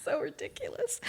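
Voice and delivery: whispered aside. Real, not acted. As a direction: breathe it out, unvoiced. Aside after embarrassing story.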